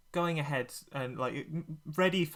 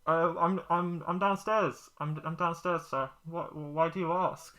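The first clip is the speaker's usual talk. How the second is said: higher nervous radio voice; over walkie talkie; 4 semitones higher, 3 dB louder than usual. Acted. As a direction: stammer through a crackly radio. Ren answering over walkie-talkie.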